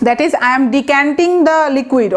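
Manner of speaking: very slow, word by word example sentence; teacher dictating slowly; slow dictation. Shown as a demonstration. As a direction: spell it out slowly for the class. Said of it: "মদ ঢালছি".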